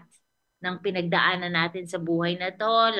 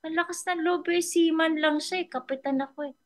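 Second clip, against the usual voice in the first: higher, scoffing outrage; offended captain; 8 semitones higher than usual. Retold or imitated. Captain outraged that a seaman talks back, mock outrage. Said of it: "Sabi niya".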